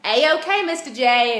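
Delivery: a hint of a giddy Harley Quinn. Teasing viewers with her Halloween costume line, mild Harley Quinn. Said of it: "give candy in character".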